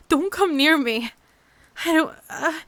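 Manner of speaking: loud, panicked warning; frightened shout. Acted. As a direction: yell to keep it away. Backing away from creature.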